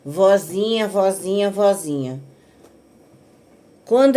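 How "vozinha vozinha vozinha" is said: wheedling granddaughter. Retold or imitated. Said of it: "assim mesmo".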